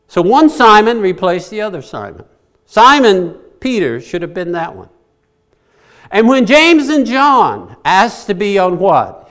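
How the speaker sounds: loud, high-pitched sermon delivery with swooping emphasis; forceful preaching. Real, not acted. Preacher urging the congregation to look to Jesus, forceful preaching. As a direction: preach it hard, lifting key words.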